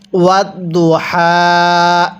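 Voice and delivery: ওয়াত দু হা slow, light breath from the throat on হা; correct recitation. Shown as a demonstration. Teacher models the correct হা for students. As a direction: let air out of the throat on হা. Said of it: "তাহলে কিভাবে পড়তে হবে?".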